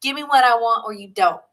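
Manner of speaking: put-on New Yorker accent. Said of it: "a New Yorker accent all of a sudden".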